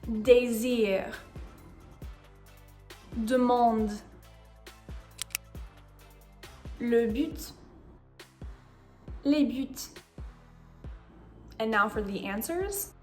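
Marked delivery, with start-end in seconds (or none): 0.1-9.9 each word read alone with long pauses; slow textbook pronunciation. Shown as a demonstration. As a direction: read Désir, Demande, Le but, Les buts carefully. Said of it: "I'm going to read both words".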